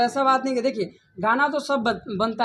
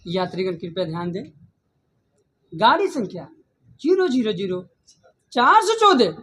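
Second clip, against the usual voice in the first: over the intercom. Shown as a demonstration. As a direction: call it out like a station announcement, slowing at the end. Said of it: "dialogue हो जाए तो like".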